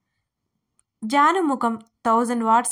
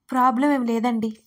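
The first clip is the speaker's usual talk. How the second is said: quick blurt; 4 dB louder than usual. Acted. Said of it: "టక్కున అనేసింది".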